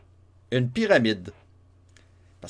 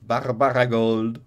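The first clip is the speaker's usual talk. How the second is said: savoring the name; 3 dB louder, slower than usual. Shown as a demonstration. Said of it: "je me demande pourquoi j'ai entendu ce nom".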